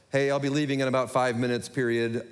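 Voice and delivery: casually dictating a text, punctuation included; low-key talk-to-text dictation; quick casual dictation. Acted. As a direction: run it off in an offhand everyday voice. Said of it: "I speak quickly and sometimes I mumble".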